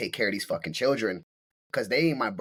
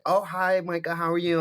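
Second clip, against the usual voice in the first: fake sweet switch; 8 semitones higher than usual. The nosy wife suddenly greeting Micah, fake sweet. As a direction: put on a sudden sweetness to cover being caught. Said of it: "she switched up".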